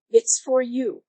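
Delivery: mild mock call upstairs; lightly called out to upstairs; yelling up. Mother calling her son to the phone, mild yell. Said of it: "she yells up at me".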